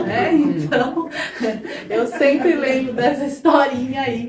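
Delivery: loud laugh spilling into the words. Real, not acted. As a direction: laugh through it after the punchline. Laughing after story punchline. (rindo alto enquanto fala)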